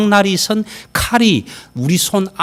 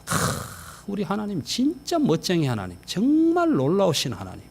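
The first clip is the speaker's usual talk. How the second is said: 감탄하는 기도; 3 semitones higher, 6 dB quieter than usual. Shown as a demonstration. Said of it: "그러니까 감탄하세요".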